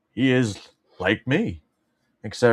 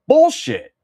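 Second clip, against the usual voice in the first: high mock squeal of Bullshit; 5 dB louder than usual. Rejecting a history fact, high squeal. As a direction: squeak out Bullshit. in fake outrage.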